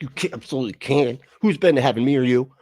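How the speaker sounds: hammed-up preacher, building to a shouted boast; mocking the preacher. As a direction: parody preacher taunting a doubter. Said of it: "And she's like".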